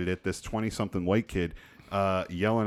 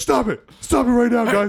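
barked delivery, higher and louder; 10 dB louder than usual. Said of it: "I'm barking at these guys".

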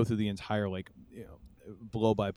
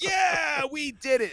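mock very high, very slow, drawn-out excited cheer; 5 dB louder than usual. Recapping an episode, mocking a character's reaction: retelling an excited cheer. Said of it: "he's all excited".

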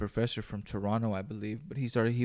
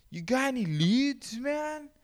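put-on very high, slow, drawn-out stoner-girl voice. Speaker attempting the voice of the woman from Cheech and Chong. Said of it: "Try to do the voice of that fucking the chick from Cheech and Chong".

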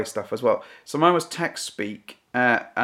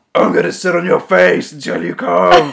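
put-on demonic voice, higher and louder; 5 semitones higher, 10 dB louder than usual. Playing out a joke flirting line, switching into a demonic voice. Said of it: "That sounded demonic".

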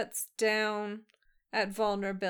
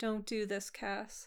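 very soft, much quieter, slower speech; 6 dB quieter than usual. Retelling a scene where Cass says goodbye, Dean replying in softest voice. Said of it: "just in the softest voice".

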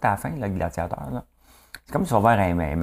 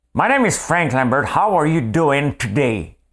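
loud, high, put-on rural country accent; 6 semitones higher, 5 dB louder than usual. Speaker switches from french to english to show a personality change; redneck accent. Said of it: "à un redneck".

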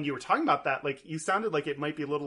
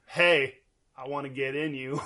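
slow, put-on flirtatious come-on voice; 3 dB louder than usual. Acting out a straight dude walking up to ladies: straight dude hitting on a lady. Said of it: "Are you saying straight dudes don't walk up to ladies and say".

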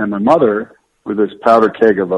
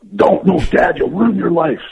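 put-on children's outcry, very high, yelled in unison; 9 semitones higher than usual. Retelling the four kids' reply to a plan to join Twitter: imitating kids yelling out. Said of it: "unanimously and simultaneously yelled out".

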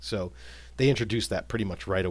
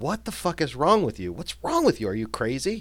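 accusatory, in-your-face outburst with swooping pitch; 4 semitones higher, 3 dB louder than usual. Showing the second of two ways to say a phrase, in an accusatory tone. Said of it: "or in an accusatory tone".

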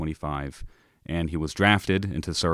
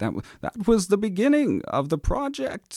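put-on high, swooping elderly man's voice. Guest recounting how a project began long ago, in an old man voice. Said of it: "it's my old man voice".

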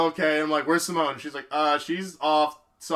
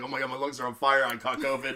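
put-on heavy breathing, lower and quieter; 3 semitones lower, 6 dB quieter than usual. Retelling walking back after losing a dog: imitating panting while talking. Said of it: "heaving and breathing".

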